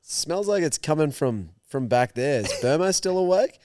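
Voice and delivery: overacted mate faking alarm; hammed-up surprise. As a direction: play it up loud so he hears. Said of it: "he's like".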